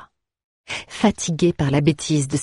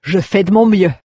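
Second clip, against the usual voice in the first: amused baron; 3 semitones higher, 6 dB louder than usual. Acted. Baron mocks daughter, amused.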